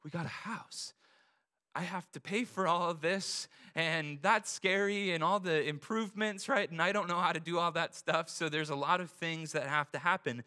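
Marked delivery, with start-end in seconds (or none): 0.0-8.3 worried. Retold or imitated. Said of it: "And then, like".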